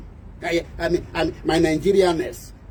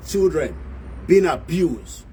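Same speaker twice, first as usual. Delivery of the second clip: ordinary talk, nothing marked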